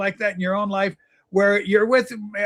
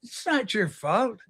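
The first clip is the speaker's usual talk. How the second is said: gentle counselor. Pretend. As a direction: soothe him like a therapist. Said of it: "just reaching out to you going".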